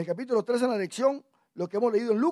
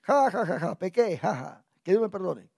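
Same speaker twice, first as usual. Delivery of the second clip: mock laughing confession; 3 semitones lower than usual. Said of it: "hasta con una risa lo dicen".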